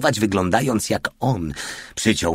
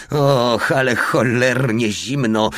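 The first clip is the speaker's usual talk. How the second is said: higher, slow whine about the cold; whimpering; 5 semitones higher, 4 dB louder, slower than usual. A narrator's reading. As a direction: moan mildly, freezing cold. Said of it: "kwilił Porta". (lekko kwilący, wyższy głos)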